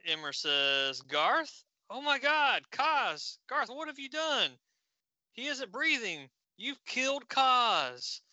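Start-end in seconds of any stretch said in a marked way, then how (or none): 1.0-8.2 much higher, aghast voice; shocked grief. Acted. Imra finds Kaz not breathing, higher horrified voice. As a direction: gasp it out in horror.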